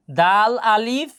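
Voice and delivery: দাল আলিফ stretched slowly, holding the vowel; টেনে টেনে পড়া; long drawn vowel. Shown as a demonstration. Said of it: "এখানে একটা টান দিয়েছি".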